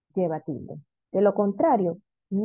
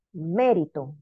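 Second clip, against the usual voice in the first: mérito with the MÉ brought out; teacher sounding out mérito, MÉ stressed; stress on antepenultimate syllable; 4 semitones lower, slower than usual. Shown as a demonstration. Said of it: "Tercera sílaba, antepenúltima".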